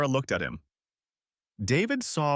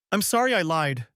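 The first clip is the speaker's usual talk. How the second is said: gasped out; 6 semitones higher than usual. Acted. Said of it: "she gasped out".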